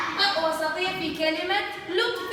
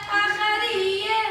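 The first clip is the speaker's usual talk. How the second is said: drawn out; 3 semitones higher, slower than usual. Shown as a demonstration. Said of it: "ط".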